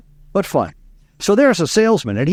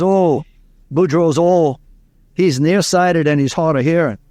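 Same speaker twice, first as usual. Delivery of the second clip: put-on light Cajun farmer accent; old Cajun farmer. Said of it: "an old Cajun from Southwest Louisiana, farmer".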